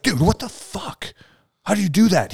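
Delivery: very high, slow disbelieving cry; baffled buddies. Retold or imitated. Soldiers asking the Southern guy his secret, high mock disbelief. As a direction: stretch it out in amazement. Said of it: "And we'd be like".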